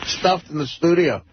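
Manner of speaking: talking through laughter; laughing. Real, not acted. Co-host teasing Eric about being stuffed together eternally, laughing as he talks. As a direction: crack up at your own morbid joke.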